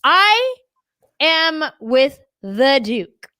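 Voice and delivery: slow, grand mock-British announcement; high, loud start, regal English accent; Bridgerton British. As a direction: play a haughty Bridgerton lady with a British accent. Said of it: "I do Bridgerton".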